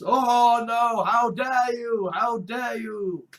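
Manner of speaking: slow, drawn-out pearl-clutching; hammed-up dismay, dragging it out; mock scandalised. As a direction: stretch each word in pretend horror. Mocks objectors to sex on screen.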